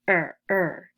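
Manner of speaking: "Er, er" as the weak vowel alone, each separate; isolated er sound. Shown as a demonstration. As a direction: sound out "Er" twice as a word ending. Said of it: "become pronounced like uh".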